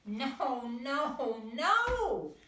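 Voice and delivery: panicked mother duck crying out. A narrator's reading. Missus Duck pulling Harold from the pond, alarmed cry. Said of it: "cried Missus Duck".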